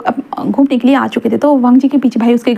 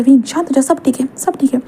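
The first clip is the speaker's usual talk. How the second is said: soothing. Acted. Wang Ji soothes crying Wing.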